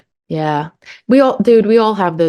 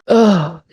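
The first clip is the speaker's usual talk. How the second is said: disgusted groan; 4 dB louder than usual. Real, not acted. Disgusted at own parenting memory.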